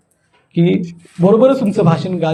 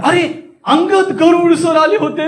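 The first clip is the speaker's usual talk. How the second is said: high, slow amazed exclamation; astonishment; 8 semitones higher than usual. Shown as a demonstration. Speaker tells that Angad Garud sir came, astonished. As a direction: exclaim as if at a rare sighting. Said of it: "आश्चर्यानं सांगायचे".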